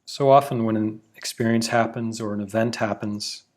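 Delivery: measured meditation guide with long pauses; unhurried, evenly paced mindfulness instruction; guided meditation. Acted. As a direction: guide listeners in, phrase by phrase, letting each settle.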